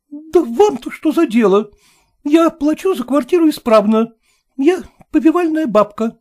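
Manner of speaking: high, loud rebuttal; indignant retort. Acted. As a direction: stand your ground firmly. Hostess affronted.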